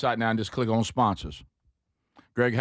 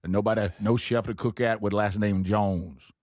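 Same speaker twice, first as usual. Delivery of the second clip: put-on Cajun accent; 3 semitones lower than usual. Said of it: "picked the slang up".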